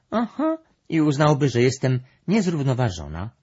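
loud, high, smiling remark. A narrator's reading. Brąba jokes about being thought unbalanced, smiling. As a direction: say it through a smile, voice lifted. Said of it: "uśmiechnęła się Brąba".

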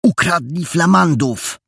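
high, loud, slow drawn-out disclosure; excited revelation. Acted. Jola reveals the theft to the boy, excited and emphatic. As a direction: announce it slowly and emphatically, pitched high.

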